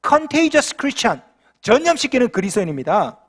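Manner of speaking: drawn-out, very slow English phrase; slow emphasis. Real, not acted. Pastor driving home the book title, very slow. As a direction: stretch each syllable of Contagious Christian. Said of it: "우리는 뭡니까?".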